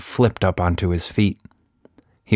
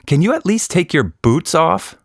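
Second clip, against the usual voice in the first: put-on higher, girlish plea; little girl voice; 10 semitones higher than usual. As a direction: ask like a small girl. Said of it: "Nina asked".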